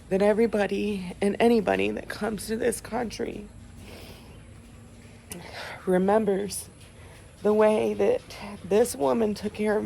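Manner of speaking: crying but pushing through; snotty crying. Real, not acted. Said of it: "Sorry for the ugly crying face".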